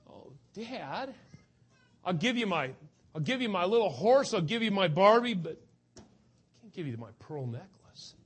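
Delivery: put-on little girl pleading. Girl bargains to keep her necklace.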